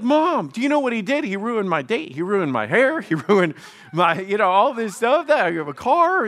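high, loud, indignant protest; upset outburst at Mom. Retold or imitated. Teenage son protesting to Mom, high and indignant. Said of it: "now I'm getting upset at Mom".

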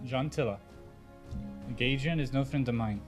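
ordinary talk, nothing marked

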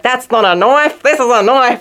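mock Australian movie-quote voice; imitated Australian accent. Retelling a tourist's Australian accent on Alcatraz, mock Australian. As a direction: imitate someone trying broad Australian. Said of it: "I heard somebody in San Francisco saying that".

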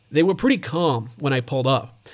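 put-on a settled, steadier American accent on "They were pretty calm"; second try, sink into the American accent. Host rereads a neighbour's quote in a mock American accent. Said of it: "Let me try that again".

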